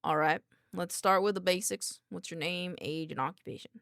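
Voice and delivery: put-on light country accent, formal questioning. Doctor asks a researcher the basics, light country accent. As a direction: interview with a hint of country. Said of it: "give him a country accent".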